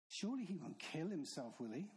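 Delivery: a touch of mocking scorn; scornful. Preacher voices the Jews scoffing at Jesus, mild scorn. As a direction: sneer it lightly, as the scoffers would. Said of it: "Their scorn is palpable".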